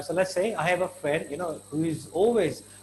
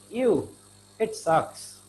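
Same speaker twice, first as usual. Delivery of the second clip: disgusted ew; 4 semitones higher, much slower than usual. Shown as a demonstration. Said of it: "what did I use? Ew".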